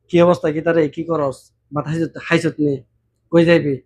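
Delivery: casual Brahmanbaria dialect chat; the speaker's home Brahmanbaria dialect, easy and friendly. Shown as a demonstration. Greeting a fellow villager from Brahmanbaria, in Brahmanbaria dialect. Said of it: "আমরা বানবাড়ির ভাষা আমরা যেভাবে বলি".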